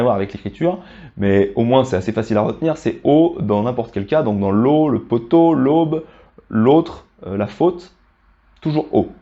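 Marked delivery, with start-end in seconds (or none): 4.5-8.0 l'eau, poteau, l'aube, l'autre, faute with a round O. Shown as a demonstration. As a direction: model one O sound through l'eau, poteau, faute. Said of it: "Là, ça se prononce O".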